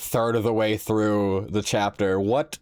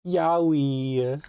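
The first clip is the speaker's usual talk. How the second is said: gleeful; 6 semitones higher than usual. Real, not acted. Gleeful exclamation.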